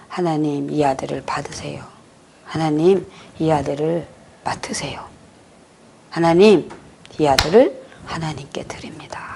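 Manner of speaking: soft unvoiced whisper of a prayer. Mother laying hands on her son, whispering a prayer.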